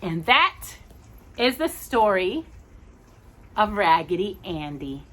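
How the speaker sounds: gentle storybook reading; reading to children. Acted. Parent reading Raggedy Andy to a child, gentle storybook voice. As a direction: tell the tale to a small listener.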